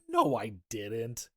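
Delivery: slow, drawn-out mock denial; lying denial. Dad lying to his daughter, drawn-out denial. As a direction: stretch out the denial, playing the liar. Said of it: "he's still trying to lie to her".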